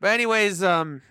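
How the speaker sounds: tipsy, loosening speech. Real, not acted. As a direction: talk like you've had a few. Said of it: "God, I'm drunk".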